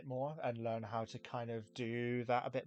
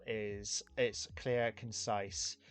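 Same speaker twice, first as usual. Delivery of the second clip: BBC accent; much slower than usual. Shown as a demonstration. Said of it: "and I'm doing it right now".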